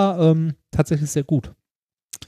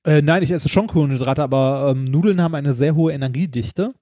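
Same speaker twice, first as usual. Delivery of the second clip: talking around a lozenge; words round a cough drop in the mouth; sucking a candy; 2 semitones lower than usual. Real, not acted. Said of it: "Aber du isst die ganze Zeit irgendwas".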